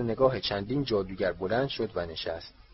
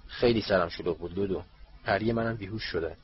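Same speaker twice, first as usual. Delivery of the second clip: dry tone. Acted. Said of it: "با همان لحن خشک همیشگی".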